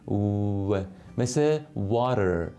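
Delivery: water with rounded lips, a clear w; w in water from pursed lips, no teeth; teacher's w demo. Shown as a demonstration.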